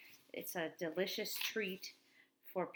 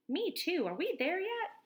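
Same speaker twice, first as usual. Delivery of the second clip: high, louder impatient whine; eager kid; 11 semitones higher, 6 dB louder than usual. Acted. Josh popping up to ask his friends, high and eager. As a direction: pop up and beg.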